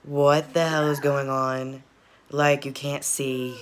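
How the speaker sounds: slow, drawn-out mock panic; freaking out. Viewer imagining waking up tied up, freaking out. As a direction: act out freaking out, stretching the words. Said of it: "I'd be really freaking out".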